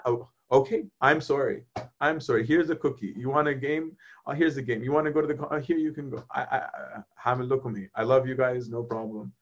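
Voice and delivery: lightly voiced God placating his kids, trailing off; God appeasing. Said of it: "He's like".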